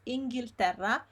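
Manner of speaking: Inghilterra with every syllable sounded; correct pronunciation. Shown as a demonstration. Teacher fixes a mispronounced word, full syllables. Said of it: "pretty much mispronounced here".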